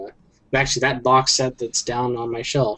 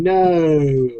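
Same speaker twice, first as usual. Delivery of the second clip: Vader modulated no; 4 semitones higher than usual. Retold or imitated. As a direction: push no through a voice modulator. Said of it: "voice modulator and going".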